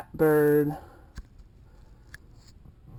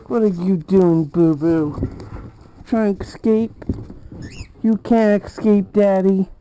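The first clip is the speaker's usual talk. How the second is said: loud, higher playful teasing; 3 semitones higher, 6 dB louder than usual. Real, not acted. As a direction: tease the bird, playfully loud.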